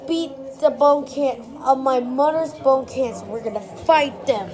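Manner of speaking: loud rallying call to the team; rallying shout. Pretend. Kid rallying his toys to fight cancer, loud. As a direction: rouse the troops loudly.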